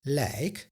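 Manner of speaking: lijk said as a short weak luk; unstressed Dutch ending. Shown as a demonstration. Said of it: "pronounced as luk".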